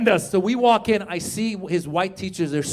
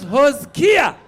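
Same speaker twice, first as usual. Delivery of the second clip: shouted punchline; 7 semitones higher, 7 dB louder than usual. Retold or imitated. Punchline compromise name shouted.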